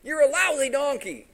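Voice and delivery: high, loud rant at an animal; angry master. Acted. Balaam threatening his talking donkey, angry and loud. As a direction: rage at the donkey, pitch way up. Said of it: "his master gets angry".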